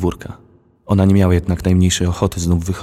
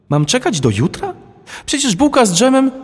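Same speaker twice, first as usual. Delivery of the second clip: put-on whining child. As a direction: complain like a little girl. Girl protests the wait. (dziewczynka protestuje, bardzo wysokim, głośniejszym głosem)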